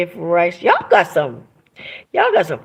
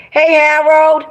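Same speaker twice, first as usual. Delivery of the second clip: higher, louder happy call of a name; 8 semitones higher, 6 dB louder, slower than usual. Real, not acted. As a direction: call him in, delighted. Calls to a friend in chat.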